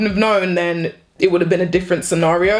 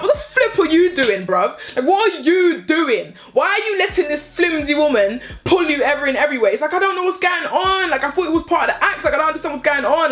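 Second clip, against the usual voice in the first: higher-pitched, incredulous demands; retold exasperated telling-off; 5 semitones higher than usual. Woman confronting her partner for letting himself be pulled, exasperated. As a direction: retell it as a baffled scolding.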